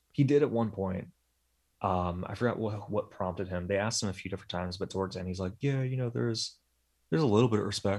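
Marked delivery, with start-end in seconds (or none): 5.6-8.0 mock dejected, deflated, let-down delivery. Retelling his answer after being asked several times: imitating a dejected tone. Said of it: "more, like, a dejected tone".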